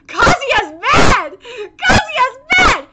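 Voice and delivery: drawn-out, slow hyped chant; gleeful hype. Real, not acted. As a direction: stretch it out and crow with glee. Gleeful at hero's rage.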